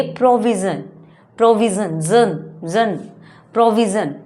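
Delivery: प्रोविजन ending in a buzzed "zun". Shown as a demonstration. Teacher drills provide's noun, प्रोविजन with "zun" ending. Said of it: "provide को हम क्या बोलेंगे".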